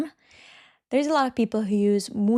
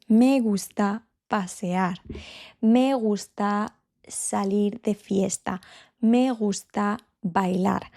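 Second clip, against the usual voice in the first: slow model sentences. Shown as a demonstration. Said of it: "We're going to use me".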